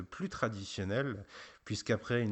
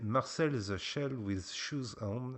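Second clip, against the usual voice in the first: slow, deliberate English accent on the title; slower than usual. Shown as a demonstration. Host reads the English title for the listeners in an English accent. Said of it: "avec mon accent qui est pas beaucoup meilleur".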